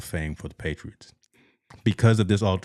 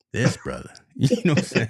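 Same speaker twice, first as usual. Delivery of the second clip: laughing; 5 semitones higher than usual. Real, not acted. Laughing at co-host's bad connection.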